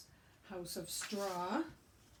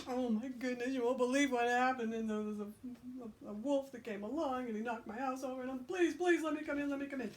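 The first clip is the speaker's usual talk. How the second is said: excited pig; 5 semitones higher, faster than usual. Acted. Pig tells brother the story.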